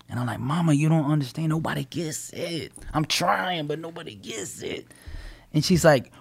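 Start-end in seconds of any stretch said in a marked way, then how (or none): 0.4-4.9 mock plaintive plea, fading softer; retold pity story. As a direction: complain to mama, losing volume by the end. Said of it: "pity story, poor me".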